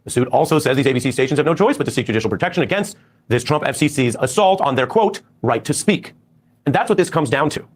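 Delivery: TV news audio from another room; tv through the wall. Real, not acted. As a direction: broadcast bleeding in behind the mic. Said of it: "You guys are saying the T V is loud".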